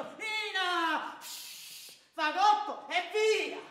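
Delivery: sudden loud order, hushed in the middle; retold order to wife. Husband sending his wife away, loud order. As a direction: bark it at her, then a quick shush. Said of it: "avrei detto".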